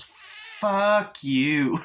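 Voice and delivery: high, snarling doll voice; Chucky voice. Retold or imitated. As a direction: spit it out like a nasty little doll. Chucky insults the old couple.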